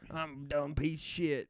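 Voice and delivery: a lightly hammed-up Southern drawl; mock a buddy's twang, hammed up; exaggerated Southern twang. Teasing a coworker in an exaggerated Southern twang. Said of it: "I start talking like it, but I exaggerate it".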